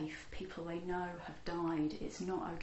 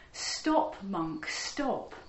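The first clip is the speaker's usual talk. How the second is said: shouting; 5 dB louder, much slower than usual. Acted. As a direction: call after the monk down the road. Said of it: "he just shouts".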